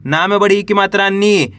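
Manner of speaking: नी held with a falling tune; spelling aloud. Shown as a demonstration. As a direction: spell it out, settling on a long नी. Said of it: "तो कैसे पढ़ेंगे?".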